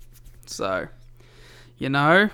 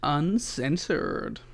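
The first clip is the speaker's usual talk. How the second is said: dramatic; 6 dB quieter, much slower than usual. Pretend. Drawn-out playful word.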